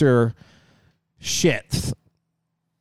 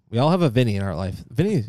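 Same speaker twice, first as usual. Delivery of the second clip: usual speaking voice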